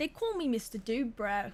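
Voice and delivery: clumsy, bad put-on Australian accent. Repeating a game character's introduction after hearing it: bad australian accent. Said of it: "I'm not a good accenter".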